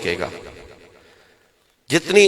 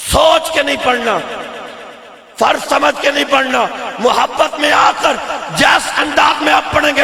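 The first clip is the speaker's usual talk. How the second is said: loud preacher urging the crowd; rallying the congregation; 11 semitones higher, 5 dB louder than usual. Real, not acted. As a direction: call everyone to join in, forcefully. Rallies crowd to join chant.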